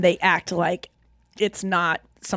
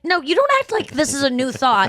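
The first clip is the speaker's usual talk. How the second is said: mock annoyance; 5 semitones higher than usual. Annoyed retort to waiter.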